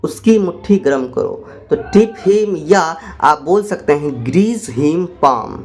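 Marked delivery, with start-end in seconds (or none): 1.7-5.6 laughing. Real, not acted. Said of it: "laugh heard".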